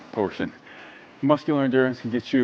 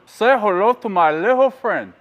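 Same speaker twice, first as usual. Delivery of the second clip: put-on high, slow Scarface quote in a Cuban accent; hammed-up Cuban accent, high and slow; 7 semitones higher, 6 dB louder than usual. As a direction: growl it like Tony Montana in a Cuban accent. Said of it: "really good Cuban accent".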